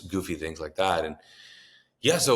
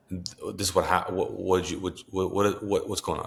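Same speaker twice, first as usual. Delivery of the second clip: stammered shock. Retold or imitated. Stunned, waking brother after terrifying encounter.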